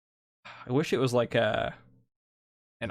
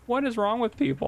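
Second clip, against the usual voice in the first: incredulous; 9 semitones higher than usual. Retold or imitated. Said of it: "I'm like".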